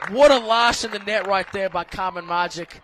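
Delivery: building from plain into a loud, high goal call; excited goal call. Acted. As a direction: ramp up and explode on the goal. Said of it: "you can do an English accent for a goal".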